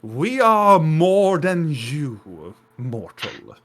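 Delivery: slow, solemn construct speaking through gears; a hint of a magical machine voice; bass mechanical golem voice. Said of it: "very bass, mechanical, like, magical, like, essence to the voice".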